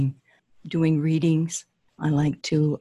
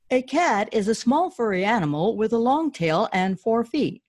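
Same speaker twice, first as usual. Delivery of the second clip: higher, earnest explaining; prince voice; 6 semitones higher than usual. Acted.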